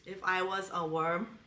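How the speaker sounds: slow, earnest put-on American; sincere American accent. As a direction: ask it tenderly in an American accent. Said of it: "say in a sincere American accent to David".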